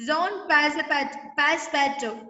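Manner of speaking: "Passepartout" slowly, ending in an open -to; French name pronunciation. Shown as a demonstration. Teacher showing students how the name is pronounced, French name pronunciation. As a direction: say "Zone Passepartout", first word like zone.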